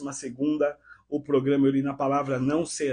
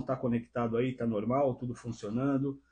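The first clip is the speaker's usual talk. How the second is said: ordinary talk, nothing marked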